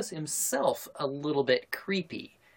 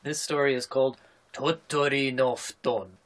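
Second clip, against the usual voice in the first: anime voice. Pretend. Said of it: "I have to do this in my best anime voice".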